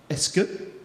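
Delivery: slow, halting French, phrase by phrase; hesitant classroom French question; careful learner's French. Acted. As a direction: feel out each French word with long gaps. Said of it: "I start off perfect".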